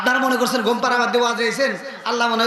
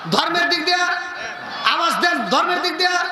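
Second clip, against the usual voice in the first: raised, higher call to the crowd; rallying call; 5 semitones higher than usual. Real, not acted. Preacher prompting the crowd to answer, calling out. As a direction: call out each phrase for a response.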